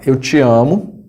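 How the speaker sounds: slow, plain-voiced declaration of love; sincere love declaration. Shown as a demonstration. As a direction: say it slowly and tenderly. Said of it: "amor que é expresso com essa entonação".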